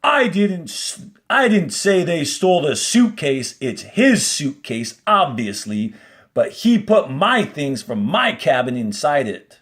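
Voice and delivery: flustered warden. Acted. Teacher reading the warden's flustered denial in class. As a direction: protest defensively. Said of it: "The warden exclaimed".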